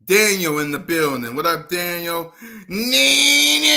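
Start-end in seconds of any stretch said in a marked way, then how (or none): 2.7-3.7 high, loud excited greeting; excited call. Real, not acted. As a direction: call the name out with delight. Greeting a viewer in chat.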